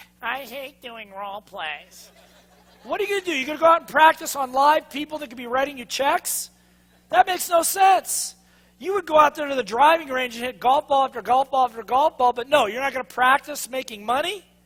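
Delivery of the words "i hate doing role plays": distant, hushed, slow, dragging, reluctant little voice. Voicing the listeners' reluctant inner voice about role plays: imitating the listeners' inner voice. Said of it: "some of your little voices are going".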